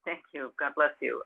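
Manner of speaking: holding back tears. Real, not acted. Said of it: "I'm trying not to cry".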